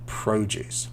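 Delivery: "produce" whispered, PRO-duce with long O; whispered word. Shown as a demonstration. Teacher whispering the high-level word "produce" to students. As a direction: breathe out "produce" like a secret tip. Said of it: "here's a nice high level word".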